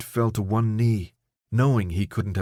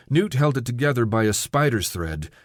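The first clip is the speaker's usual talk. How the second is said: plain reading voice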